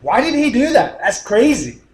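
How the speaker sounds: mock bewilderment; lightly voiced confused audience; puzzled listener. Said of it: "You'd be like".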